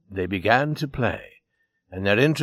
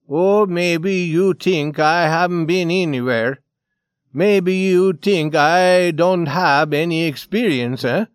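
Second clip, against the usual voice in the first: loud, raised, agitated challenge; the Swede; 5 semitones higher, 6 dB louder than usual. Acted. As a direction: challenge them in an edgy character voice. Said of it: "The Swede's fingers shook".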